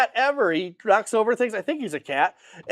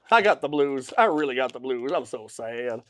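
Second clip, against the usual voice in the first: mock blues lament; 9 semitones lower, 4 dB quieter than usual. Bluesy pun on the colour.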